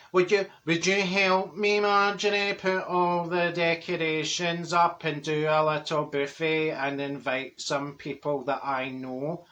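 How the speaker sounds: slow, measured friend impression; slow-talking Dorothy. Friend asks Marjorie to help with party, slow imitation. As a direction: ask it in a drawn-out imitated voice. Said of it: "she says".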